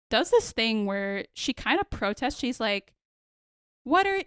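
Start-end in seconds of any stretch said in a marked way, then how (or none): 3.8-4.2 weird voice. Retold or imitated. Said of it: "she does, like, a weird voice".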